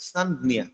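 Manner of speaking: সান, জ্ঞা split into two beats; syllable by syllable. Shown as a demonstration. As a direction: break it as সান then জ্ঞা. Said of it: "সান, না বলতে পারেন বা সান, জ্ঞা, এভাবে একটু".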